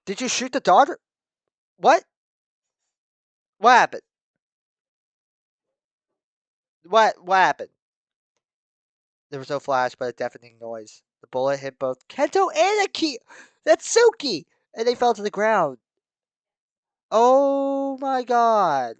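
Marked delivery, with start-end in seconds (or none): 0.0-7.7 high, loud stunned questions; horrified shock. Real, not acted. Reader reacting to the shot daughter, loud horror. 12.1-19.0 high, loud, drawn-out gasp of dismay; stunned horror. Real, not acted. Reader reading the shooting, high horrified.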